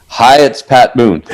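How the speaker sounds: lightly voiced smooth TV host, slowed; a hint of a showman signing on; 1970s TV special host. Pat Boone greets a late-night caller like a TV host. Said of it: "He said it like that".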